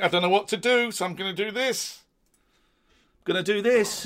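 high, loud, flustered self-mockery; lightly hammed-up nervous presenter; mimicking himself on screen. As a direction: play your own panicked old self. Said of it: "the head to the chin thing".

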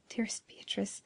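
soft, tender endearment. A narrator's reading. Giovanni approaching his dear Beatrice, softly tender.

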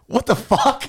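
high-pitched, baffled outburst; incredulous squawk, played for laughs; mock disbelief. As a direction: react as if utterly baffled. Acted baffled reaction to sub teen.

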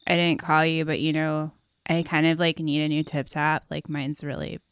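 muffled, as if hand over mouth. Acted. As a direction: speak through a hand over your mouth. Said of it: "it sounds like you're muffled".

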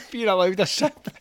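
put-on high, loud kid's voice saying beer allowed a sip; little boy asking sweetly for a sip; childish mispronunciation. Kid begging a parent for a sip, high and loud.

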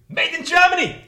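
high, loud exclamation; mock alarm. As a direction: shout it as a comic shock discovery. Mock alarm reading microphone's origin.

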